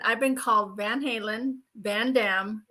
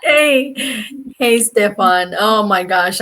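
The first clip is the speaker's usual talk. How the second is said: excited greeting; 10 dB louder, much slower than usual. Real, not acted. Guest greets host loudly.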